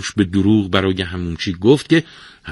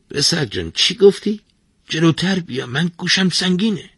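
put-on old man voice; 11 semitones higher than usual. Half-deaf old bath attendant speaks.

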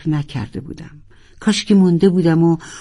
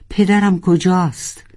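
mild shout; 3 semitones higher than usual. Acted. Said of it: "ناروال دوباره فریاد زد".

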